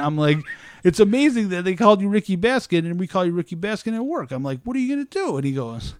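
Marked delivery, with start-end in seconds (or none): 0.8-4.3 high, gleeful retold teasing; amazed delight. Coworker teasing man about his nickname, amazed. 4.6-5.4 high-pitched retold rhetorical question; dismissive retort. Coworker brushing off the embarrassment, high and dismissive.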